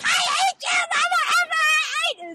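high, loud mock shriek; retold scream. Woman prying elevator doors back open, mock screaming. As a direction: shriek it like a comically hysterical woman. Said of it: "she's screaming at this guy".

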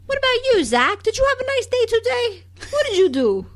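a hint of a sugary wife checking in; mock caring girlfriend. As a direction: play a doting girlfriend asking about his day. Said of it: "you never hear them say".

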